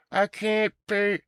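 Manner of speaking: high, slow pleading damsel; damsel in distress. Acted. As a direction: plead like a helpless maiden. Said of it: "I just did a play for y'all".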